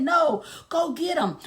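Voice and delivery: lightly high, mock-petulant ex; a touch of a pouty ex. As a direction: whine it like a spoiled boyfriend. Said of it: "He said".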